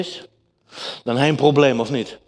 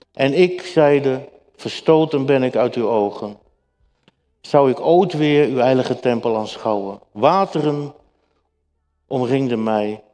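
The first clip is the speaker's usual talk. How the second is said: measured, slightly raised Bible reading; scripture reading. Acted. Preacher reads Jonah's prayer to the congregation, solemn reading.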